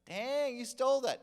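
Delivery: loud, high-pitched amazement; imitating an astonished clerk; amazed outburst. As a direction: blurt it out, impressed and astonished. Clerk amazed at low price.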